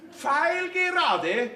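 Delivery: "Pfeilgerade" stretched very slowly, rising; drawn out. Acted. Father drives home the curfew to his daughter, drawn-out question. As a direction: draw out "Pfeilgerade" like a warning.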